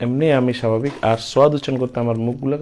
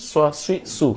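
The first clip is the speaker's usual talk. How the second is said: সোয়া সুই সু run together quickly; quick recitation; 4 semitones higher than usual. Shown as a demonstration. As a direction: rattle off সোয়া সুই সু in one go. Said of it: "দ্রুত উচ্চারণ করি". (দ্রুত একটানে সোয়া সুই সু)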